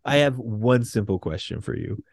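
low, slow and stern, words pulled apart; angry Storm. Retold or imitated. Storm confronting Peter over his betrayal, slow stern demand. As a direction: Storm demanding answers, drawn-out.

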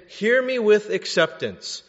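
preacher voicing Jesus with force; pleading loudly. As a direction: urge them to really listen. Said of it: "He's saying".

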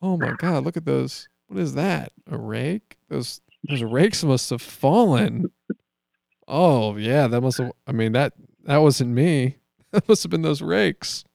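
mock fake innocence. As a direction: overplay the innocent act. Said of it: "and you're like".

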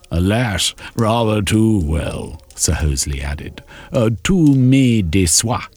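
mock him with a weary sigh; Sir Hosley's quip. Sir Hosley teases Shermy over his lover, arch sigh.

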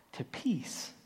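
soft breathy whisper of peace. Real, not acted. Preacher telling how fear turned to peace, a whisper. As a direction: breathe the word out in relief.

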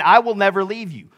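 impassioned promise, punched out phrase by phrase; fervent pledge. Retold or imitated. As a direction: swear loyalty on the disciple's behalf. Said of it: "the one he pledged his life to".

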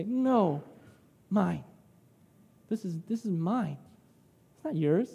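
subdued imitation of a possessive child; understated, quietly stubborn refusal; childlike refusal. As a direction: lightly voice a child holding back. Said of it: "We act like a child and we say".

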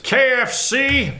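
high, slow Southern drawl; Colonel Sanders. Acted. Host trying the Southern gentleman, Colonel drawl. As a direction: stretch each letter in a Southern accent. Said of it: "Yeah, Colonel Sanders".

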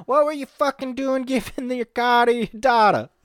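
high, incredulous mock scolding; acted angry questioning.

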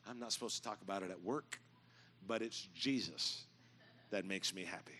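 low, soft confidential admission; imitating a flight attendant's hushed confession; leaning in, confiding. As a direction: share it like a secret at work, slowing toward the end. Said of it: "And she leans in".

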